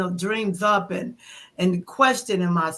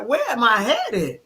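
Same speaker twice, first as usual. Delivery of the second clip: amused; 3 semitones higher than usual. Retold or imitated. Retelling worried questions to older friends, amused and laughing.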